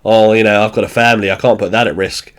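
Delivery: mildly sarcastic, sinking in pitch; understated mock excuse. Sean declining to help against the shoplifter, lightly sarcastic. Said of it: "Sean sarcastically goes".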